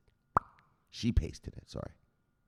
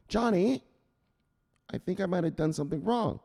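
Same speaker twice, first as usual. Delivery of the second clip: worried mom; 5 semitones higher than usual. Acted. Mom voiced in phone story.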